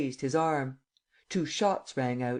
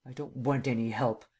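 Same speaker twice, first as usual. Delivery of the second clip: a lightly voiced gruff refusal; growling. A narrator's reading. German count refusing Lupin's offer of help, mild growl. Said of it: "growled the German".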